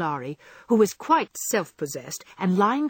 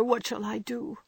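higher, pleading question; a girl begging her mother for help; despairing plea; 4 semitones higher, 5 dB quieter than usual. Acted. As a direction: ask in despair. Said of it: "cried poor Jo in despair".

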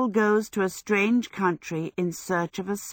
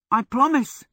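willingly; 6 semitones higher, 4 dB louder than usual. A narrator's reading. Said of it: "Michael said willingly".

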